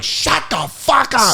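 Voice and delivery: gruff heckler voice. Retold or imitated. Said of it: "And they're like".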